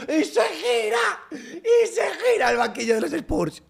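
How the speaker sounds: crowing over the Spurs bench; ecstatic laughing shout. Real, not acted. Celebrating, bench turns away. (grito eufórico entre risas)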